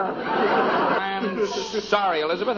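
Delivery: very slow sorry through a laugh; sheepish laughing sorry; laughing apology. Real, not acted. Apologizes to wife while laughing.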